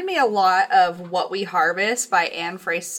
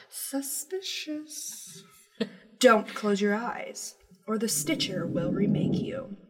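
spooky voice. Acted. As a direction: read it like a campfire ghost story, whispering the snips. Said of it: "uh, spooky voice".

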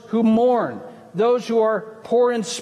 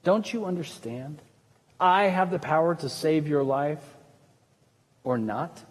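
arrogant Pilate; 6 semitones lower, 5 dB quieter than usual. Retold or imitated. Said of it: "Pilate arrogantly says to Jesus".

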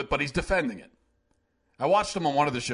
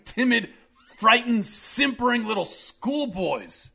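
outraged rant; 4 semitones higher, 4 dB louder than usual. Real, not acted.

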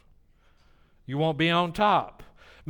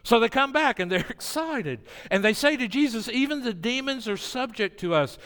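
higher, lively storyteller lift; excited retelling; 6 semitones higher than usual. Acted. Preacher relaying the disciples' report with rising excitement. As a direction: carry their excitement into the telling.

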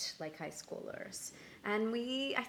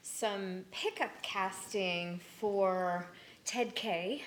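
breathless from running, catching breath between words; out of breath, slow, pausing to breathe; slower than usual. Real, not acted. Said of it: "I'm still out of breath from running".

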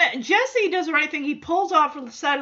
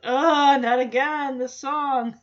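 mildly exasperated groaning complaint; fed up, lightly acted; slower than usual. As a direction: imitate an eye-rolling kid. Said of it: "he just rolls his eyes like".

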